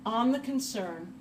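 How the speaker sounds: words spaced out while writing; broken into chunks with long gaps; slow dictation. Real, not acted. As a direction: say it slowly, as if dictating. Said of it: "Let me write that down real quick".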